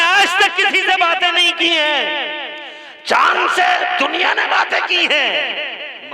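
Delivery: high, loud preacher's cry; preaching at full force. Acted. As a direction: call it out to the whole gathering. (ज़ोरदार तक़रीर की पुकार)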